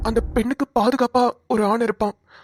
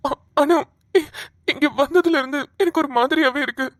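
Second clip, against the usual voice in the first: halting start through tears; tearful faltering; 2 semitones higher than usual. Acted. Ram feeling strange since he came here, tearful and faltering. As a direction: break off and restart, close to crying. Overwrought Ram senses Seetha near.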